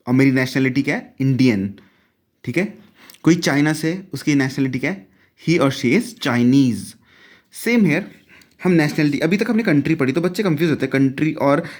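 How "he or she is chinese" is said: very slow, every word spaced out; careful teacher demo pace; slow model sentence. Shown as a demonstration. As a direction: spell it out slowly for students. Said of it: "teacher modelling sentence slowly".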